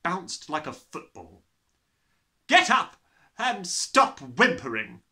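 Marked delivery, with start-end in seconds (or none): 2.5-5.0 loud, higher barking order; barked. Acted. Headmistress barking at the fallen boy. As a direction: snap it down at him. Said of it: "the Trunchbull barked".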